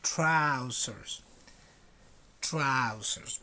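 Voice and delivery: Trousers, slow and clear, to be repeated; Trousers, with the tr blend sounded; model pronunciation. Shown as a demonstration. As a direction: say Trousers for the class to copy. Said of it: "Repeat after me".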